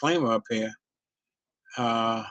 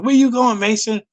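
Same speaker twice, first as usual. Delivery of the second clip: quoting Otto; 7 semitones higher, 4 dB louder than usual. Retold or imitated. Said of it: "quoting Otto".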